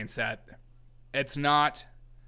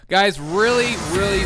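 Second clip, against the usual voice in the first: mock dramatic announcement; 6 semitones higher, 9 dB louder than usual. Mock grave news opener.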